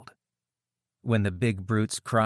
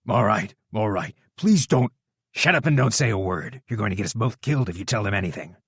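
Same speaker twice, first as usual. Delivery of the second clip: panicked; 2 semitones higher, 6 dB louder, faster than usual. A narrator's reading. Scar-faced man panicking to silence his partner, frightened. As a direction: beg then hiss at your partner in panic. Terrified captive begs and hushes.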